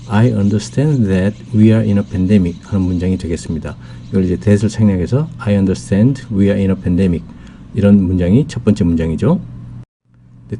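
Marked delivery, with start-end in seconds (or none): 0.1-2.6 slow, clear English model sentence; slow clear classroom English; slow teaching read. Shown as a demonstration. 5.4-7.3 slow, clear English model sentence; slow clear classroom English; slow teaching read. Shown as a demonstration.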